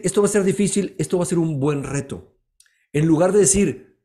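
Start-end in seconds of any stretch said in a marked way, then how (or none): 0.0-1.0 the negative take, pitched up and heavy; gloomy version of the sentence; discouraged phrasing. Shown as a demonstration. 1.0-2.4 calmer, settled positive take; hopeful version of the sentence; upbeat reframe. Shown as a demonstration.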